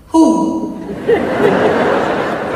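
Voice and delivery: put-on high, loud, puzzled old woman; confused gran. Grandmother puzzled by the masked visitor, high. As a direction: squint at a stranger.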